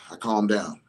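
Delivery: exhale, then settle into a low, calm voice. Retold or imitated. Retelling the calm after a rage, low and settled.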